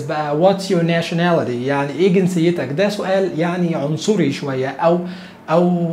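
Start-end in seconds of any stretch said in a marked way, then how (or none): 0.4-1.7 schoolbook question. Shown as a demonstration. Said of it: "السؤال بتاع المدارس".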